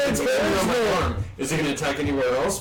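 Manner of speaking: anxious high questions; worried. Retold or imitated. Checking with the cop about the attack, anxiously.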